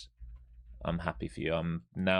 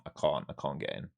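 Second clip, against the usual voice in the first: whispered under the breath, much softer; frustrated whisper; 6 semitones lower, 5 dB quieter than usual. Real, not acted. Streamer realising he missed the move, whispered to himself. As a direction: whisper it to yourself as the trade escapes.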